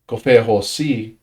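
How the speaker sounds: "confessahosi" said as ko-fe-ho-si, falling end; careful Tongan word; Tongan pronunciation. Shown as a demonstration. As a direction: say "confessahosi" smoothly with a fall. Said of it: "is how this is pronounced".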